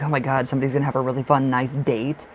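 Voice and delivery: fast, breathless rush of delight; excited gushing. Retold or imitated. Reader gushing about the viewer's upcoming date, excited and fast. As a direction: gush it out quickly like a thrilled friend. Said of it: "I'm like".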